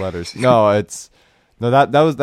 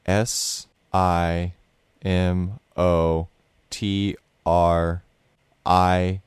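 spelling it out; much slower than usual. Shown as a demonstration. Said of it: "You go S I".

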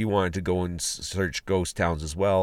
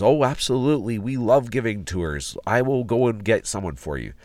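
higher-pitched, eager to help, imitating an excited lady; mildly hammed-up enthusiastic yes; excited helper; 4 semitones higher than usual. Middle-aged lady offers visitors a tour, imitated excitedly. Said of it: "very excitedly goes".

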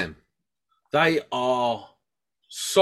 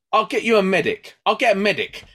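insistent woman; 8 semitones higher, 5 dB louder than usual. Retold or imitated. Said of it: "She goes".

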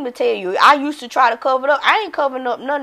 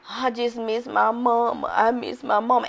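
mild self-pity; 6 dB quieter than usual. Retold or imitated. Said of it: "this is what I would used to say".

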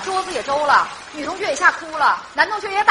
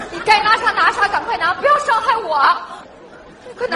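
frightened pleading; 3 semitones higher than usual. Acted. Pleading with supposed burglar.

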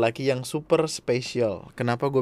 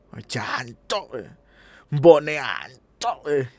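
drawn-out curse; much slower than usual. Shown as a demonstration. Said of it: "kita mesoh".

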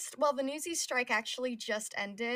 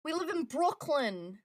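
put-on slow Brooklyn accent, higher pitch; a hint of a Brooklyn accent; 5 semitones higher, slower than usual. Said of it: "I don't do a good Brooklyn accent either".

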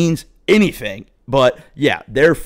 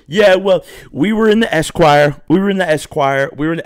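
high, smug, braggy mimicry; mocking hostess; 6 semitones higher, 3 dB louder than usual. Smoking hostess bragging about Esquire.

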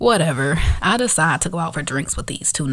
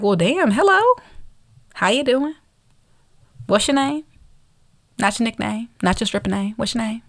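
taken aback; 5 semitones higher than usual. Retold or imitated. Mock reply to crude opener.

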